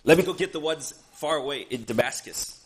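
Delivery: loud, eager mock enthusiasm; excited persecutor. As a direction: act out Saul keen to go hunting. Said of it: "he is excited about it. He's like".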